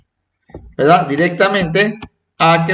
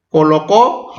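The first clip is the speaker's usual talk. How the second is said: "colocó" rising onto the accented final O; stress on final syllable. Shown as a demonstration. Teacher pointing out written accents, stress on the O of "colocó". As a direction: land on the last O of "colocó". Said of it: "acento a la O".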